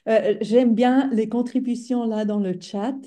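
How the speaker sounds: speaking French with a foreign accent; non-native French speaker. Real, not acted. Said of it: "Pardon, mon français, c'est pas très fort".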